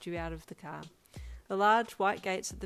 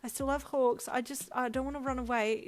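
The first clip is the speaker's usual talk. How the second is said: said quickly; 7 semitones higher, 4 dB louder than usual. Acted. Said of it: "you said quickly".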